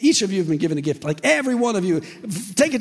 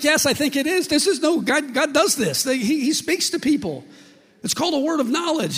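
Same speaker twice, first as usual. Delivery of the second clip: high, loud, urgent outburst; imitated excited insistence; 11 semitones higher, 6 dB louder than usual. Man explaining word of knowledge, imitated high excitement. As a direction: act out an overwhelmed man insisting. Retold man's astonished, urgent reply.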